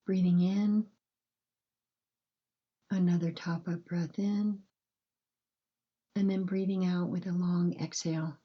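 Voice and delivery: calm, unhurried breathing guidance with long pauses; gentle bedtime meditation voice, measured and spacious; guided meditation. Acted.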